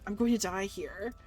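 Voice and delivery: ordinary talk, nothing marked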